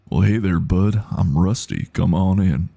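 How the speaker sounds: lightly put-on old-time American accent. Streamer settling on Rusty from the USA, American accent. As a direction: greet with a light American country twang. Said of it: "The old U S A".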